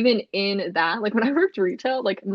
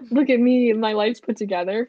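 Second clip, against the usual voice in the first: fake put-together voice; 2 semitones higher, 4 dB louder than usual.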